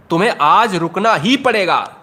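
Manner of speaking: emphatic peak on "ही"; ही पर जोर. Shown as a demonstration. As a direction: insist by punching "ही". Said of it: "तो ही". ("ही" पर जोर देकर आग्रह)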